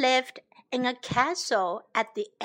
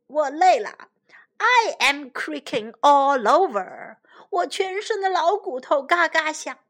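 put-on whiny old king; 3 semitones higher, 4 dB louder than usual. Old king complains he is tired.

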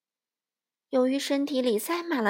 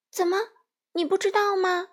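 high, loud disbelieving "you don't know?"; Dorothy amazed the scarecrow has never heard of Oz; surprised question; 8 semitones higher, 4 dB louder than usual. Acted. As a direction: ask it in real astonishment, pitch leaping. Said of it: "多罗西吃惊地问".

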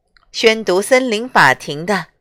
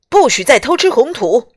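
stern command; 4 semitones higher, 4 dB louder than usual. Acted. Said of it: "警长威严地命令他".

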